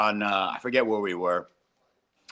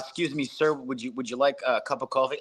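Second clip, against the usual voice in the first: mock announcer. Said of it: "announcers put on, like, a different voice".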